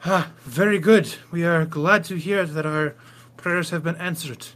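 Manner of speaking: a touch of a reverent villager, pleased; lightly voiced villager. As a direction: greet a spirit lord, lightly in character.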